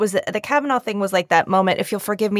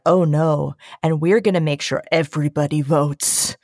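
low rumble; 4 semitones lower than usual. Retold or imitated. Guest voicing coalitions of women, low and determined. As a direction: drop it low, like a gathering rumble. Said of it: "it's just a low rumble".

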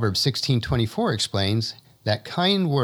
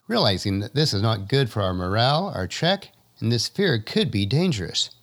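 ordinary talk

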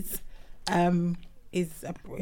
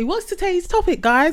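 higher, brighter host voice; 12 semitones higher, 7 dB louder than usual. Retold or imitated. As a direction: announce it like a host. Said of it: "I was even gonna say".

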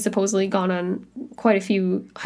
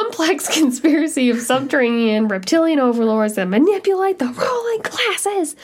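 reluctant; 5 semitones higher than usual. Real, not acted. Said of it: "You could barely get that out of your mouth".

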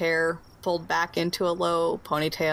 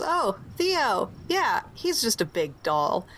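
lightly voiced woman, higher on Theo; a hint of a pleased housewife; wife voice; 4 semitones higher than usual. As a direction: GM voicing the wife answering the door. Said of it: "and she goes".

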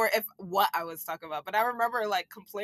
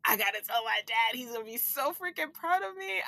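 excited; 3 semitones higher than usual. Retold or imitated. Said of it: "And I'm like".

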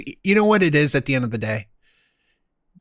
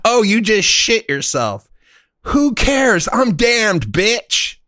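brazen defiance; 6 semitones higher, slower than usual. Acted. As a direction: play the damned soul who couldn't care less. Acting out the carefree damned.

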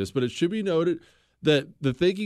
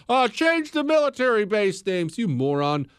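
mocking scorn; 6 semitones higher than usual. Mocking quote of critics.

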